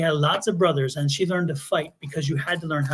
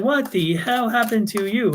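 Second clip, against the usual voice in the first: higher-pitched mock demand, each word driven; retold shocked mother; 5 semitones higher than usual. Mom sees the swollen ear, shocked demand. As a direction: imitate a mom demanding an explanation.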